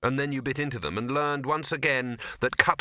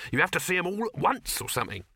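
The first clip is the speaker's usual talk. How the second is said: higher, vague hawker's explanation; lightly voiced street vendor; 7 semitones higher than usual. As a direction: explain it like a half-informed salesman. Dibbler explains, acted dialogue.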